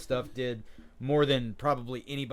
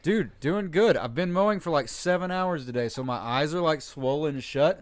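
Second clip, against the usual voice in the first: shaky voice; 3 semitones higher, 4 dB louder than usual. Real, not acted. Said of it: "My voice is, like, shaky".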